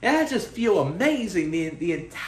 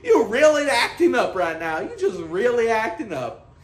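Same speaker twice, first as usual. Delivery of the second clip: laughing self-scold. Real, not acted. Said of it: "I had to stop myself".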